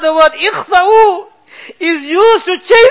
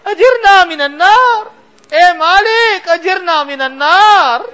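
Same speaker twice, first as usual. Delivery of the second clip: crying plea. Real, not acted. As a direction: break down while begging for refuge. Repeated plea, now crying.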